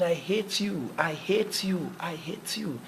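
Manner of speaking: mock yell flung out to the field; shouting outdoors. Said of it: "and started shouting".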